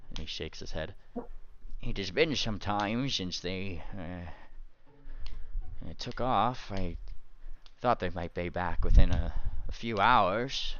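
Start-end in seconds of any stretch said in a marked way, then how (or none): 1.8-10.7 lightly voiced old cleric, unsure; halting, slowed words as he tries to remember; a hint of a dazed father figure; puzzled cleric.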